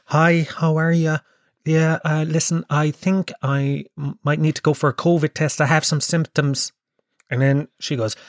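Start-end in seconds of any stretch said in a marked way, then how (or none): 0.1-1.2 ingratiating nice-guy greeting; polite nice-guy voice. Retold or imitated. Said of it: "you know, my polite voice". 1.6-6.7 lightly put-on polite caller; polite nice-guy voice. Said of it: "you know, my polite voice".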